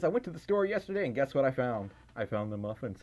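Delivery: ordinary talk, nothing marked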